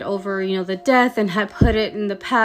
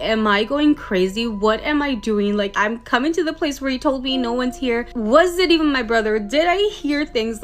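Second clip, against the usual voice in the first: mock panic; 4 semitones higher than usual. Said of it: "started thinking to himself".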